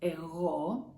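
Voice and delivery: Εγώ with the final ώ drawn out and stressed; stress on last syllable. Shown as a demonstration. Teacher warning where the accent is, Εγώ stressed on ώ. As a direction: say Εγώ leaning on the closing ώ. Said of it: "The accent is on O".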